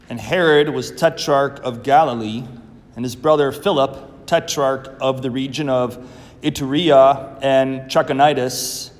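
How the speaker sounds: measured, solemn proclamation; liturgical Gospel reading. Acted. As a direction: read it like scripture from the ambo.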